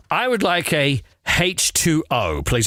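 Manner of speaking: polite upper-class British request; well-spoken British accent; posh British. Shown as a demonstration. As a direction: order in careful posh English. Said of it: "they're not usually very posh".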